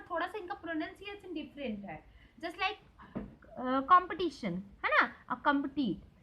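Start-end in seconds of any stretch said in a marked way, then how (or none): 3.8-4.5 कॉम्पिटिशन with the ti syllable stressed and held; teacher modelling the stressed ti. Shown as a demonstration. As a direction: lean on the ti in कॉम्पिटिशन. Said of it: "टी में ज़्यादा हम लोग को stress देना है".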